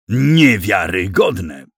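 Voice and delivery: loud, slowly drawn-out indignant exclamation; slow, emphatic indignation; indignant outburst. A narrator's reading. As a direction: stretch it out loudly in outrage. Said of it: "wypowiedziano z takim oburzeniem".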